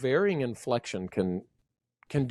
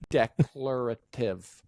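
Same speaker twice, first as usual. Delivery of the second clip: slow, separated syllables; careful pronunciation; 2 semitones lower, slower than usual. Real, not acted. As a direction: sound out the word carefully. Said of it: "I can't speak".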